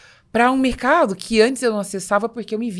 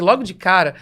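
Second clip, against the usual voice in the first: laughing; 4 semitones higher, 7 dB louder than usual. Real, not acted. Laughs at own realization.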